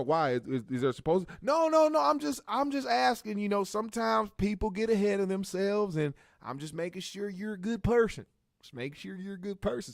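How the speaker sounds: high, nervous stalling that settles down; flustered backpedal. Retold or imitated. Joel nervously getting rid of the plumber. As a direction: hurry to cover yourself.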